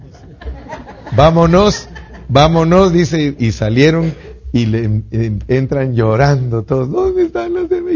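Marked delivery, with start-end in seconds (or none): 1.2-2.9 higher, louder urgent command; urgent call. Retold or imitated. The sergeant orders his soldiers to leave, calling loudly. 6.9-8.0 anxious cry. Retold or imitated. Crying congregation asks anxiously.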